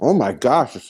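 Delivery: talking with a mouth full of food; words pushed around a mouthful. Real, not acted. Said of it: "Sorry, I'm talking with my mouth full".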